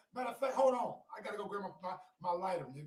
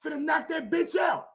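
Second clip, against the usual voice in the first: loud, higher, fast heated yelling; heated shouting; 6 semitones higher, 8 dB louder than usual. Real, not acted. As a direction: shout him down. Heated argument about fight.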